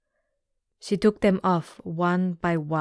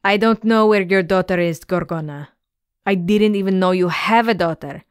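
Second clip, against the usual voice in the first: fast, louder, pleading denial; frightened rush; 4 dB louder, faster than usual. Acted. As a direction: blurt it out in fear. Terrified captain answers the monster.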